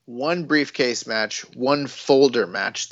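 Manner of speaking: slow, deliberate correction; emphatic correction. Real, not acted. Co-host corrects the briefcase count, slow and emphatic. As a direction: spell it out slowly for the co-host.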